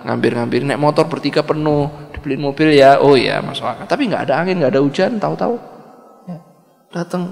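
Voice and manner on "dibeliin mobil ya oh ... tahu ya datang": usual speaking voice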